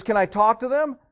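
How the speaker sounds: loud, high exasperated question; upset boss. Acted. Boss asks little kid for mommy, loud and upset. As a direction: act a boss losing patience with a child. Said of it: "Boss is really getting upset".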